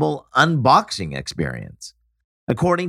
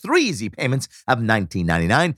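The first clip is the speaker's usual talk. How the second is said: over eager infomercial; 8 semitones higher than usual. Pretend. Imitating infomercial pitchman after clips.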